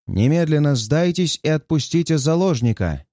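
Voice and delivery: booming voice over a loudspeaker; loudspeaker announcement. Acted. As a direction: announce it through a megaphone. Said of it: "гремит из громкоговорителя". (громовой голос из громкоговорителя)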